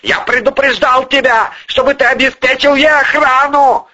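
high, loud scolding; furious, high-pitched dressing-down; barked reproach. A narrator's reading. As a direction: bawl out the subordinate. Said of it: "рявкнул Артём Павлович".

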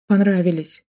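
ordinary delivery

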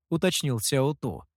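plain reading voice

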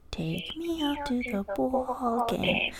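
put-on Chicago accent. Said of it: "I wanna do that Chicago one".

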